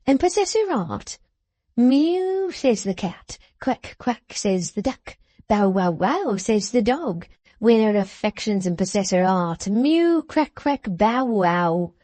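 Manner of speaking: jeering at the secretary's fine words; mocking outburst. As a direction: parrot his words like a barnyard taunt. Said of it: "stared at him in his outburst".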